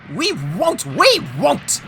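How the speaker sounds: high, squealing refusal; screamed. A narrator's reading. Stubborn trucks refusing James, screaming. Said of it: "screamed the trucks".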